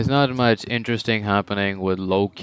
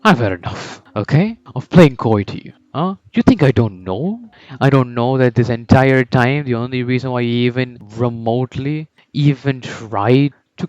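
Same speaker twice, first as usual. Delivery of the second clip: defiant declaration. Retold or imitated. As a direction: throw the challenge at him. Isagi defies Noah, declares ambition.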